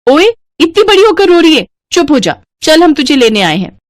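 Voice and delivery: sister-in-law comforting with a scold; affectionate scolding. Acted. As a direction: tease her out of crying. Teasing the crying Aarti.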